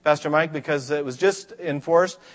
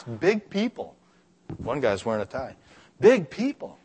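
put-on awed kid. Kids at the skate park marvelling at adults. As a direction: marvel like a small child.

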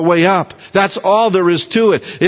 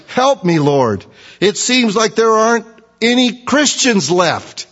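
raised pitch, complaining modern believer; everyday paraphrase; 4 semitones higher than usual. Shown as a demonstration. Preacher voicing a worn-out believer, pleading complaint. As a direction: whine it like a worn-out Christian today. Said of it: "Or in our language".

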